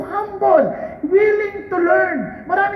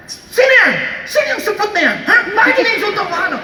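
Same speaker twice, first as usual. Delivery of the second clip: angry challenge; 2 semitones higher than usual. Acted. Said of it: "Galit na galit sila".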